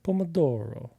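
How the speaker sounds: Italian accent. Shown as a demonstration. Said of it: "to make it a little bit more authentic".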